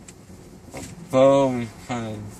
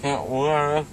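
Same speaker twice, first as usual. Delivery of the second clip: numb mouth after dental surgery. Real, not acted. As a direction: talk with a swollen mouth. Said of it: "I just got my wisdom teeth out".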